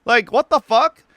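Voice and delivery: high-pitched furious rant at the rioter; retold angry outburst. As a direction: let loose on him, voice climbing. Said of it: "I'm like".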